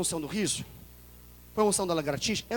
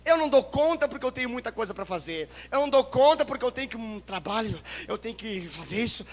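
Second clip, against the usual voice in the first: mock excuse; 3 semitones higher than usual. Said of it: "crentes modernos que falam assim".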